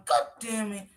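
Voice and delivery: a hint of a cursing, exasperated mom; imitating the mother. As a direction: grumble it like an irritated mother scolding. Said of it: "I put on the top of my".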